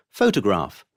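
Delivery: photograph as PHO-to-graph; stress third from end. Shown as a demonstration. Teacher giving an example, photograph stressed on PHO. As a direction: stress the first syllable of photograph. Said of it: "on the third syllable from the end".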